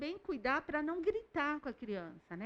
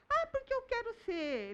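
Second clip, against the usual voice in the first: put-on very high child voice; high-pitched, plaintive kid; little boy; 12 semitones higher than usual. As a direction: imitate a small boy explaining his grievance. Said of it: "aí ele conta".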